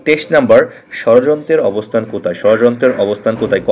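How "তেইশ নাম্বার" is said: ordinary talk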